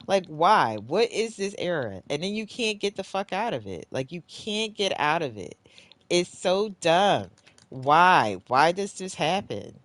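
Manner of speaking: high, loud exasperated rant; pissed off. Real, not acted. Player ranting at a game error, pissed off. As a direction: wail each complaint in real frustration. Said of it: "I'm so pissed".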